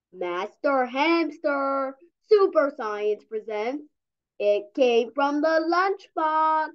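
slow, grand presenter voice; slow showman announcement; dramatic title read. Acted. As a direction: present the episode like a trailer.

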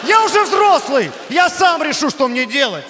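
put-on teenage outburst at his parents; defiant yell. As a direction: stand up to them, shouting. Son rebels against the family.

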